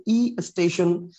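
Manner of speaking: "ই স্টেশন" spelled out very slowly, ই stretched; slow demo pronunciation. Shown as a demonstration. Teacher stepping students through the sound change, slowly. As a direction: draw out ই before স্টেশন slowly. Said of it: "ওয়ার্ডটা হয়েছে ই স্টেশন".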